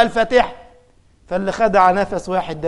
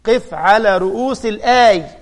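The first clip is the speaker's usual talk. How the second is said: gentle advice. Retold or imitated. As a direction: coax him kindly to pause at each verse. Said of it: "هنقول لك". (نصيحة بلطف وهدوء)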